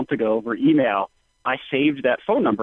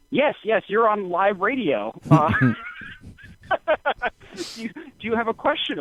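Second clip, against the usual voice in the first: imitating a radio host; 9 semitones higher than usual.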